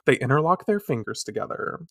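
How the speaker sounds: ordinary talk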